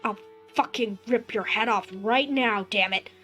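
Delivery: loud menacing threat. Acted. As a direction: threaten to kill her. Son threatening with shotgun.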